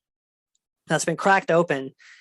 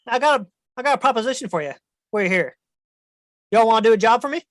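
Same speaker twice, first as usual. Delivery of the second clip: scheming dragon; 5 semitones higher, faster than usual. Acted. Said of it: "He goes".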